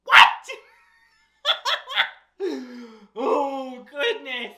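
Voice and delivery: loud, abrupt disbelief; shocked outburst. Acted. Reader reacting to the book's silly song, shocked blurt. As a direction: blurt it out, appalled.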